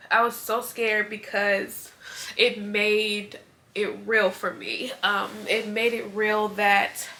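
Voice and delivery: slow, choked-up, fighting tears; slowing down as she fights back tears; holding back tears. Real, not acted. Mom recalling her baby's first heartbeat, holding back tears. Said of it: "I need tissue".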